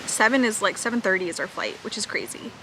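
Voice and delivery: talking through a cookie; words round a mouthful of cookie; mouth full. Real, not acted. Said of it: "Sorry, I have a cookie in my mouth".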